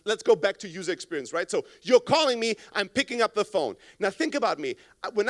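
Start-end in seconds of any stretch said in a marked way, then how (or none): none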